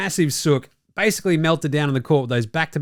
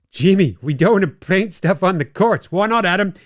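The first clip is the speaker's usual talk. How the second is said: mock official banter; 4 semitones higher, 4 dB louder than usual. Mock dialogue between league officials.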